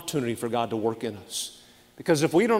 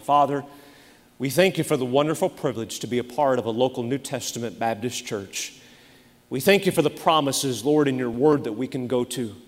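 earnest prayer voice. Acted. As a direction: pray it earnestly. Closing prayer.

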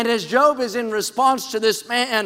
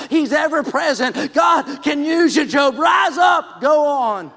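full-force preaching; 3 semitones higher than usual. Acted. Preacher rousing the congregation with Job's call to rise. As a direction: preach it to the rafters.

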